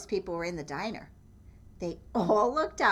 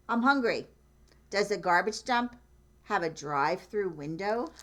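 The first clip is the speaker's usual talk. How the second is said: Goat's thought; 3 dB louder than usual. Acted. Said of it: "what he thought".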